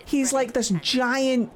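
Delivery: fond gushing. Real, not acted. Gushing fondness for character.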